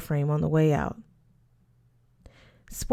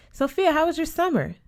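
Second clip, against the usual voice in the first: Mister Smith; 9 semitones higher than usual. A narrator's reading. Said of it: "Mister Smith said".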